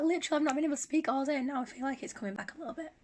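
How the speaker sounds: hoarse, weak recovering voice; voice giving out. Real, not acted. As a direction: speak with a voice giving out. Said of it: "my voice is starting coming back".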